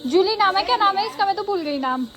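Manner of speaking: high, loud sing-song coaxing. Real, not acted. Mother urging child to say pranam, high sing-song coaxing. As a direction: coax the little one to bow.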